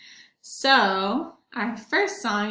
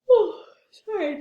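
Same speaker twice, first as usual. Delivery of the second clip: yawn; 7 semitones higher, 5 dB louder than usual. Real, not acted. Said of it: "big yawn".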